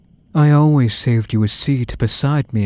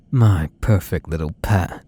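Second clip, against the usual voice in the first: laughing. Acted. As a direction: chuckle into it, gloating. Gloating over captive pet.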